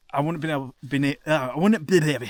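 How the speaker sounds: stumbling with frozen lips; words slurred by cold. Real, not acted. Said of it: "my lips are so cold".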